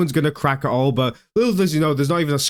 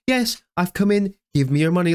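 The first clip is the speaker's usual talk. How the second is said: put-on polite good boy. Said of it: "like he's a good little boy coming into school".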